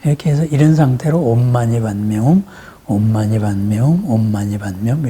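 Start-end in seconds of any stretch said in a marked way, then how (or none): 1.2-5.1 low, even mantra recitation; demonstrating how to chant a mantra. Shown as a demonstration. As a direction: recite it evenly, each round running into the next. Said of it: "이렇게 외우는 거예요".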